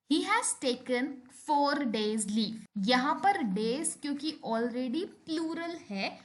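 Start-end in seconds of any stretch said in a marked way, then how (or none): 0.1-2.6 very slow, each word set apart; slow example sentence. Shown as a demonstration. Teacher reading an example to the class, very slow. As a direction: read it out word by word. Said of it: "जैसे".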